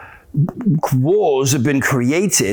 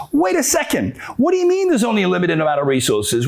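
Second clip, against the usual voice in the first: incredulous challenge; 2 semitones higher, faster than usual. Acted. Doubter challenging the claim of scarcity, incredulous. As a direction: cut in with acted disbelief.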